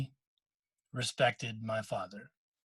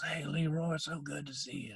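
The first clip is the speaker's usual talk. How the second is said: quietly retold; 2 semitones higher, 7 dB quieter than usual. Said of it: "he's talking really quietly".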